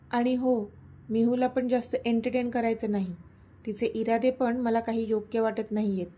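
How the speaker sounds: a mild stern warning; scolding. Acted. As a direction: wag a finger at him, lightly. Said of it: "ती त्याला दटावून बोलली".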